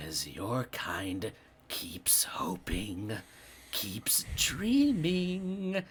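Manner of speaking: slow, eerie whisper from the dark; slow creepy ghost whisper; whispering spirit. Acted. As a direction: breathe it out like a lurking shadow.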